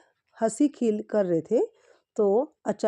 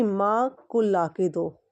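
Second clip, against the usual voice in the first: slowed demo; slower than usual. Shown as a demonstration. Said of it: "उसको सुनने में क्या आया".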